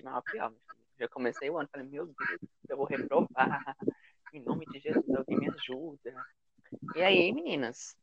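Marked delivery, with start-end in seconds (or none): 1.9-6.1 mock desperate plea. Retelling her panic about failing.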